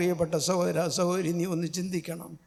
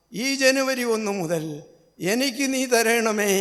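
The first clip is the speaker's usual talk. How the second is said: rising, louder plea; fervent prayer; 3 dB louder than usual. Acted. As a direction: pray with mounting fervour. (പുതുവർഷ പ്രാർത്ഥനയിൽ ആവേശത്തോടെ ഉയരുന്ന ശബ്ദം)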